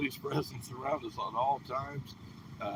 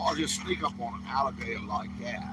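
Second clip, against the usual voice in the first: put-on light Australian accent, crocodile hunter style; a hint of an Australian twang on the alligator line; 2 semitones lower than usual. Santa to the vlog host, joking in a light Australian accent. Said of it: "That was my, uh, Australian accent".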